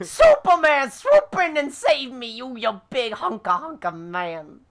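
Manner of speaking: high, loud mock cry for rescue; hammed-up damsel plea. Falling player begging Superman to save them, hammed-up damsel plea. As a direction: overplay a swooning call to a hero.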